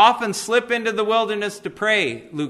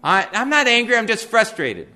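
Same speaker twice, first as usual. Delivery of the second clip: mock denial; 3 semitones higher than usual. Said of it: "we have code words for anger".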